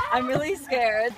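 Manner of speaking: laughing while scared; slow, laughing nervously. Real, not acted. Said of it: "actually scared".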